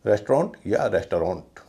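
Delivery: रेस्टोरेंट as rest-ront, then res-tuh-ront; two variants. Shown as a demonstration. Teacher offering both forms of रेस्टोरेंट, rest-ront or res-tuh-ront. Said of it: "इसे कहेंगे".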